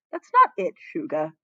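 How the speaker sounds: a touch of urgent reassurance; reassuring. Acted. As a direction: quickly reassure him. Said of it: "Chagum assured him".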